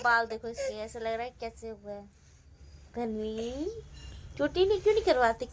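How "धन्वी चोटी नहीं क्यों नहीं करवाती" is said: playful scolding. Real, not acted. Mother chiding her toddler over her hair, higher and quicker. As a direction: tease the little one for refusing her braid.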